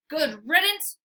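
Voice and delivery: barked dismissal. Acted. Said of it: "I'm about to bark".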